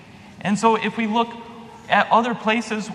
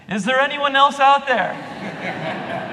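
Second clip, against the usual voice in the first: slow, higher, hopeful plea to anyone else; desperate man on cliff; 6 semitones higher, slower than usual. Acted. Man clinging to branch asks the sky, slow and high. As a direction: ask it slowly and higher, hoping for another rescuer.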